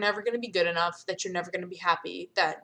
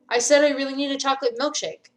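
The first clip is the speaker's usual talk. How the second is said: higher, louder breezy deflection; loud cover-up; 5 semitones higher, 6 dB louder, faster than usual. Acted. Karenina covers her slip to Serafina, loud and breezy. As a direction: brush it off loudly.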